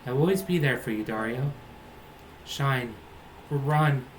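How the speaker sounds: lightly voiced hero and heroine, earnest and dramatic; a touch of RPG melodrama, not far from own voice; reading game dialogue in character. Streamer voicing the reunion scene, mildly dramatic.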